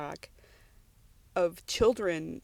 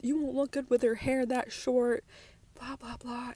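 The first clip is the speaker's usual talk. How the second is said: mock coworkers; 6 semitones higher, 3 dB quieter than usual. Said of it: "when I told them the idea".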